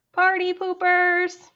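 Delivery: slow huffy shout at departing friends; indignant call. Acted. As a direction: call it after them in a sulk. Fish calls after leaving guests.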